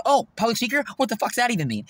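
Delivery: high-pitched mock disbelief; scornful mimicry. Imitating a man scoffing at his public speaking plans, scornful.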